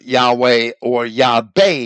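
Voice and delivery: "Yahweh or Yahweh" said first with a W, then with a B; second Yahweh hardened to Yah-BAY; variant pronunciation. Shown as a demonstration. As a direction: give both forms, Yah-way then Yah-bay. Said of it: "which is why we have".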